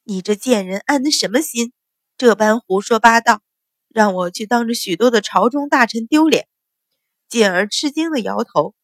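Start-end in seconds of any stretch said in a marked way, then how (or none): 0.1-6.5 mild angry tirade, louder in the middle; a touch of furious scolding. Acted. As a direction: jab a finger and berate her. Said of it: "指着他骂道".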